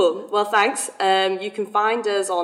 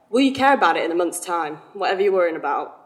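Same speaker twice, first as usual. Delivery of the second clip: out of breath. Real, not acted. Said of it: "I'm out of breath".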